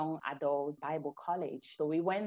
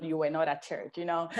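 laughing; 4 dB louder than usual. Real, not acted. Laughing at church norm in Cameroon.

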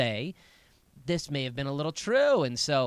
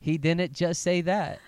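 sassy imitation; 3 semitones higher, 4 dB louder, slower than usual. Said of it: "that's a strange thing that you just did".

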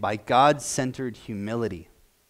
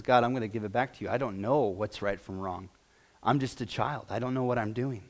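softer, hushed voicing of Solomon; hushed humble prayer; 5 semitones lower, 7 dB quieter than usual. Solomon giving wisdom back to God, hushed. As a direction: murmur it like a humbled young king.

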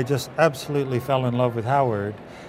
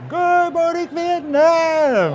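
very high, loud radio-DJ bellow; Good Morning Vietnam call; 4 dB louder, much slower than usual. Retold or imitated. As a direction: lean back and belt out the famous greeting. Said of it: "Could you say, 'Good morning, Vietnam'".

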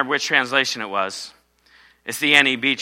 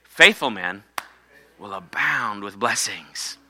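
call for congregation; 6 semitones lower, slower than usual. Shown as a demonstration. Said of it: "Everybody say".

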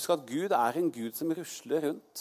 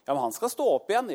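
Jesus insisting; 9 semitones higher, 5 dB louder, faster than usual. Retold or imitated. Jesus voiced, answering Martha.

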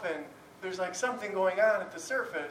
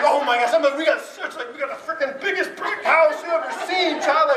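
loud, high, laughing mock boast; hammed-up bragging; 7 semitones higher, 7 dB louder than usual. Dad lying to reassure his daughter, hammed-up boast. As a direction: oversell it with big comic bluster. Dad's overblown lie to scared daughter.

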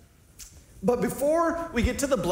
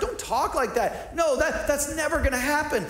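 higher-pitched protest, imitating Peter; mock lecturing; 5 semitones higher than usual. Preacher as Peter lecturing Jesus, mock scolding. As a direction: scold in disbelief, lightly acted. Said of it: "he starts to lecture Jesus".

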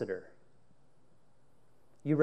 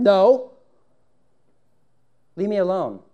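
frightened denial; 5 semitones higher, 9 dB louder than usual. Acted. Peter denying.

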